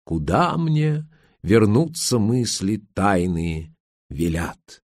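lightly hammed-up poetry-lover raptures; mock gushing. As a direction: gush affectedly, then declaim the verse slowly. (наигранный восторг)

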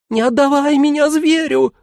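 high panicked creature howl. A narrator's reading. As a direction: wail in terror at the beast. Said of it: "взвыл манекен".

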